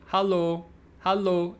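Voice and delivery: hello said as halo, open a; imitating a Finnish detective's halo; Finnish-style hello. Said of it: "it's more like".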